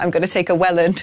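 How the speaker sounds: ordinary talk, nothing marked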